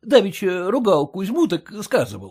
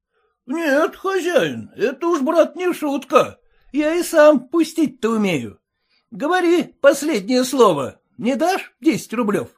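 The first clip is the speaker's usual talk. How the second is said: raised, challenging threat; defiant farmhand; 10 semitones higher, 4 dB louder than usual. A narrator's reading. Sergei demands his last word, defiant. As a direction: square up to the master.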